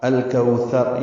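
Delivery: slow الکوثر with a soft ث and rounded و; soft tha demo. Shown as a demonstration. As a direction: draw out الکوثر gently, the ر heavy at the end. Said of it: "یہ نرمی سے پڑھا جاتا ہے". (الکوثر آہستہ، ث نرم اور را پر)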